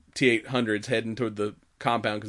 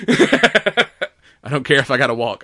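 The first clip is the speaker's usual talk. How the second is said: 1 laughing refusal; 2 semitones higher, 7 dB louder, slower than usual. Retold or imitated.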